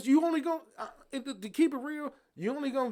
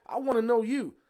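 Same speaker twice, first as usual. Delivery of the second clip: loud, heated insistence; passionate; 2 semitones higher, 6 dB louder than usual. Real, not acted. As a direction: plead your case with rising volume and force. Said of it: "He passionate".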